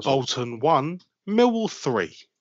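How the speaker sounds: put-on radio announcer voice. Reading out a football score, the speaker tries a new radio voice. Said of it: "your new radio voice".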